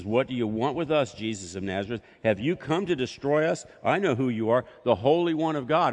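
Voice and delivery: mildly voiced spirit crying out; evil spirit. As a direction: challenge Jesus like a panicked spirit. Evil spirit speaks to Jesus.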